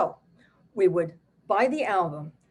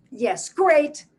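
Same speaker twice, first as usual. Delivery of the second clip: delighted yes; 8 semitones higher, 7 dB louder than usual. Retold or imitated. Mother's delighted reply.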